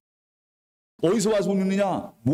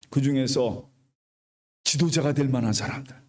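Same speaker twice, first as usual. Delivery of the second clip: lower, solemn divine command, slowing at the end; voice of God; 4 semitones lower than usual. Acted. God commanding Moses to appoint seventy elders, low and solemn. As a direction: give the order as God would, grave and measured.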